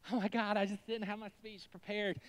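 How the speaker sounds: gushing winner at the podium; mock award winner. Award winner thanking the crowd, hammed-up gush.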